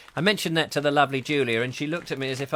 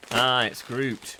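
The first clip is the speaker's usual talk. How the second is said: slow, low mock Groot; 3 semitones lower, much slower than usual. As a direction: drag it out like Groot. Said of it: "says it's a Groot".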